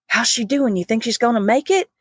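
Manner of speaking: light Kentucky drawl, imitating the nurse; a hint of a sweet Southern Kentucky nurse. Nurse asks coworker about patient, light Kentucky drawl. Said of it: "in her sweet Kentucky drawl".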